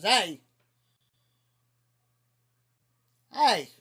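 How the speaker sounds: loud call for attention. Retold or imitated. Drunk friend yelling across at a stranger, mock call. Drunk Tim calling to the guy.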